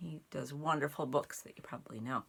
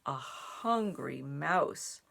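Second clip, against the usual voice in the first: slower, hushed storybook narration; reading to children; 4 dB louder, slower than usual. A narrator's reading. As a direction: tuck the seeds in for winter. Reads picture book aloud.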